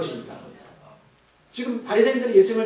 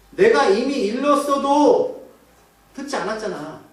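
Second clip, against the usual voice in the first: drawn-out, raised exasperated retort that drops at the end; frustrated; 3 semitones higher, slower than usual. Acted. Healed blind man answering Pharisees who keep questioning him, frustrated. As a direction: stretch it out, fed up at repeating yourself. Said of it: "맹인이 하도 다, 어, 답답하게".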